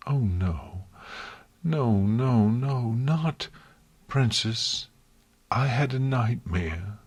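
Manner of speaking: pleading whine after a nightmare; a frightened little whine, close to tears; whining. Acted. Twilight whining to Princess Celestia after a nightmare. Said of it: "Twilight whined".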